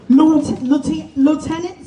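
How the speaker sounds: nervous, tripping over the title; stage fright. Real, not acted. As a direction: restart the word, flustered by nerves. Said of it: "sorry, I'm a little nervous".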